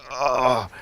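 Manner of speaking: pained strained groan. Retold or imitated. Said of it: "their face hurts".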